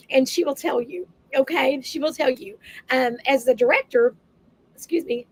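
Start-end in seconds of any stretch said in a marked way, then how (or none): 2.9-4.1 talking with something in mouth; mouth full. Real, not acted. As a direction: speak around something in the mouth. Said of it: "I've got something in my, my mouth".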